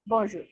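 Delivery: teacher modelling bonjour slowly; French bonjour. Shown as a demonstration. Teacher models French greeting bonjour for class. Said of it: "first ওয়ার্ডটা কি ছিল?".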